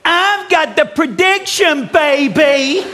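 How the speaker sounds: high, slow and loud, milking every word; hyped-up showman. Shown as a demonstration. Host demonstrates Steve's answer line, hammed-up and high. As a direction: belt it like a triumphant showman. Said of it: "I need you to stand up for me and go".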